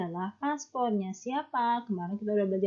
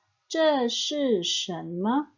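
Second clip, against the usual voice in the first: slow model sentence; 3 semitones higher, much slower than usual. Shown as a demonstration. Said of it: "Yang kedua".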